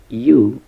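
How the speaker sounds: "eu" said loudly as "you"; sound as in university. Shown as a demonstration. Teacher sounding out euphoric's first syllable, loud "eu" as in university. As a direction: project "eu" as one isolated syllable. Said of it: "eu like in university".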